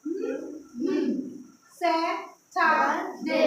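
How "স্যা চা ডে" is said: স্যা, চা, ডে spoken as three separate beats; syllable by syllable. Shown as a demonstration. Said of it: "কয়টা syllable?". (তিনটা syllable আলাদা করে)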